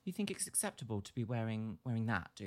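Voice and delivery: low, mock-disdainful boss voice; sneering manager voice, pitched low; imitating the boss. Manager scolding a young worker, low and sneering. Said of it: "boss manager man comes along and is like".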